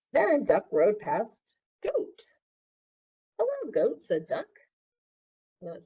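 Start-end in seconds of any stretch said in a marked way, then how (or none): 1.8-2.3 name bleated way up high; bleating goat. Acted. Reading animals to child. 3.4-4.0 squeaky high duck greeting. Acted. Duck greets farm animals.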